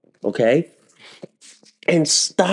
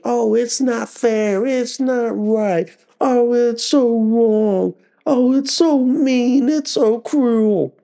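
slow, whiny mock complaint; drawn-out sarcastic whimper, mocking crybabies; mock whining; 5 semitones higher, slower than usual. Ranter mocks Democrats complaining, in a slow whiny voice. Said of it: "don't come crying saying".

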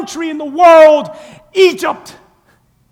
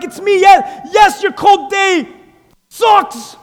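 raised, emphatic divine voice; voice of God; 3 semitones higher than usual. Pretend. God answering the complaining believer, emphatic. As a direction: speak as God answering firmly. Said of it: "And God's like".

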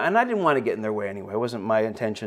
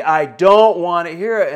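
louder, slower, each word shut down hard; angry raised refusal; 4 semitones higher, 10 dB louder, slower than usual. Retold or imitated. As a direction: slam the door on the conversation with a loud, slow no. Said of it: "his voice is raised".

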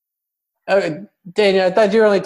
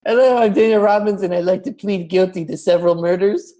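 Daniel Robbins impression; 3 semitones higher than usual. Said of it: "this is Daniel Robbins ten years from now".

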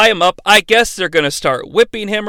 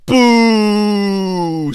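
crowd booing. Retold or imitated. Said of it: "says the crowd".

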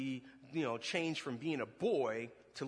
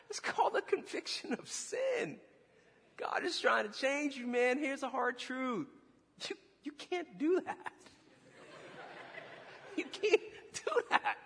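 laughing pastor; 10 semitones higher than usual. Retold or imitated. Pastor laughing as he tells the boy a hard truth. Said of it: "He was like".

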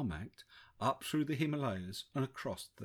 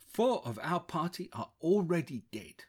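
put-on Indian American accent; 4 semitones higher, 4 dB louder than usual. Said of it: "a distinct American twang to his Indian accent".

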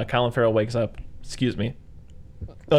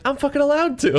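loud, high mock outrage; hammed-up high-pitched defiance; indignant protest; 6 dB louder than usual. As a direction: protest shrilly, nearly laughing. Retold standoff argument.

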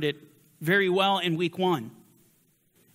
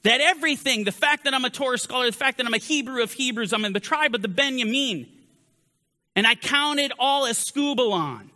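mock bold claim; 4 semitones higher than usual. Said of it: "start to make statements like this".

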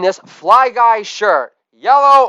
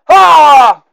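loud higher holla, dropping at the end; shouted catchphrase; 5 semitones higher, 6 dB louder than usual. Acted. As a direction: belt out holla, pitch falling.

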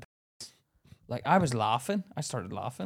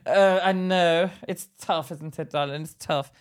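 patronizing nurse; slower than usual. Retold or imitated. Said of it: "It sounded so patronizing".

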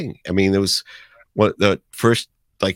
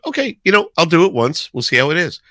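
retold thought; 8 semitones higher, 4 dB louder, faster than usual. Own thought retold, pitched up.

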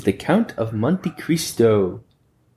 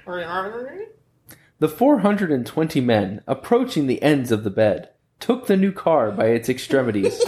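reading while cracking up; laughing through it; 5 semitones higher, slower than usual. Shown as a demonstration. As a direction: try to read it but keep laughing. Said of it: "Do you need him to read it again?".

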